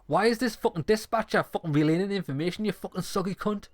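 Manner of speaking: high, hammed-up fury in a put-on voice; furious rant. Cop rants at the dispatcher, high and furious. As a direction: rant it like a cop losing patience.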